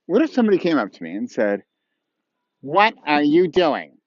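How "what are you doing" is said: slow, disapproving question; negative tone. Shown as a demonstration. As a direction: challenge them, drawing out the words. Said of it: "in that negative tone".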